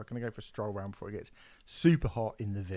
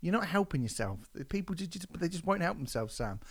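mock lecture; 6 semitones higher than usual. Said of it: "I just thought".

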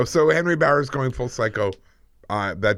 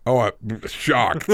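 sarcastic shock; much slower than usual. Acted. Mock surprise at failed plan.

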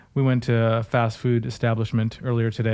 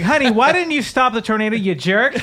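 higher, mock-scolding a husband; wife scolding husband over the tornado, mock; mock angry wife; 8 semitones higher, 5 dB louder than usual. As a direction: play a wife blaming him, hammed-up. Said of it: "it's like".

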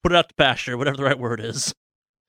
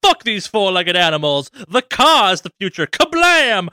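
gruff tinny action figure; 5 semitones higher, 4 dB louder than usual. Acted. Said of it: "being like".

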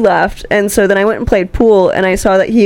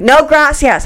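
mock Spanish; 5 semitones higher, slower than usual. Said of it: "a little racist".

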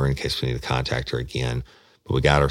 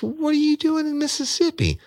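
much higher, startled question; freaked out. Retold or imitated. Woman questioning him in Mississippi, startled high voice. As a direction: demand it in alarm. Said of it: "it freaked me the fuck out".

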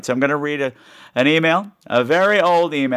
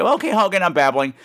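usual speaking voice

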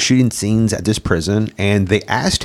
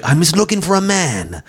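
imitated low hero voice; 3 semitones higher than usual. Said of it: "he's just like".

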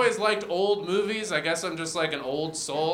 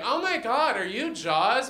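starstruck bartender; 6 semitones higher, slower than usual. Acted. Bartender recognizes famous shark in bit.

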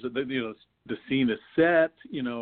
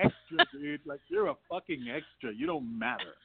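mock annoyed actor; 9 semitones higher, 4 dB quieter than usual. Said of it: "I'm sure he's going".

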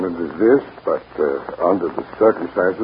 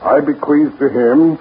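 solemn will reading. Shown as a demonstration. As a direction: read it aloud like a lawyer, gravely. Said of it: "I will read at this time".

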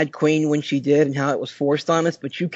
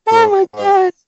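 high, loud helpless laughter through the words; cracking up at the lagging stream; laughing hard; 9 semitones higher, 6 dB louder than usual. Real, not acted. Host laughing at a co-host's frozen internet, real laughter. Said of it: "Tears in my eyes".

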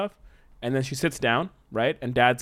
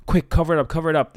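louder, punchy mock urgency; urgent hushing-up panic; 5 dB louder, faster than usual. Kids in a pitched story hear noises coming, mock urgent. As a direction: act out a hurried alarm.

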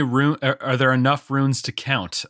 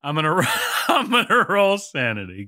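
fast, laughing through the words; can't stop giggling; 3 semitones higher, faster than usual. Real, not acted. Laughs while declaring roll.

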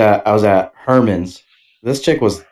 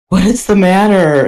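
retold concern; 7 semitones higher, slower than usual. Retelling partner's worried question.

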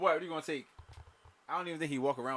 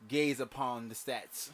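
mock grandiose; 5 dB louder, slower than usual.

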